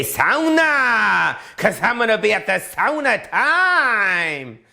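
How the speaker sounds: high, slow mock Asian accent; hammed-up Asian accent impression. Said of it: "as the Asians say".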